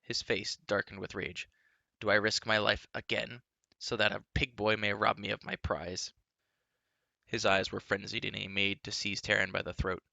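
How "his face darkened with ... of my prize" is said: furious. Acted. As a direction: rage at him. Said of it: "he shouted wrathfully".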